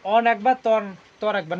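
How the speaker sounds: অন and তর each said apart, then counted; syllable by syllable. Shown as a demonstration. Teacher counting syllables for the class, অন and তর said separately. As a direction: separate অন from তর as two beats. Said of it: "উচ্চারণ করতে কয়বার লাগে".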